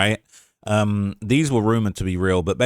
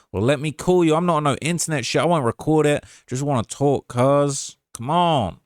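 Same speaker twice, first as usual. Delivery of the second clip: a rapper's voice; 3 semitones higher than usual. Retold or imitated. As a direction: plead it in a loose Savannah impression. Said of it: that he'd try doing the rapper's voice.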